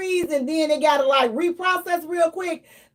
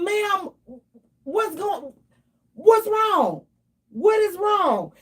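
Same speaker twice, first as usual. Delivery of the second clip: higher, half-shouted what's wrong; desperate to understand her mother; frantic pleading; 4 semitones higher, slower than usual. Retold or imitated.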